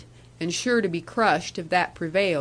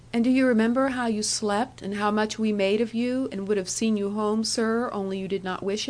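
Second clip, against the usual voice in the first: coaxing young woman, lightly voiced; 2 semitones higher than usual. Annie reminds him.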